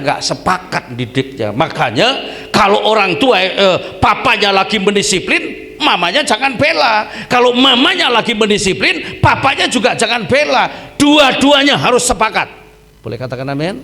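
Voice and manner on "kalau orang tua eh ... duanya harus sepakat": higher, louder preaching burst; forceful preaching. Acted. A pastor urges parents to agree, preaching louder and higher. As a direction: drive it home to the congregation.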